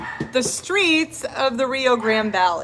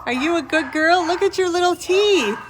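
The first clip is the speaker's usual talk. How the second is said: talking to a dog; 5 semitones higher than usual. Real, not acted. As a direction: coo at the puppy.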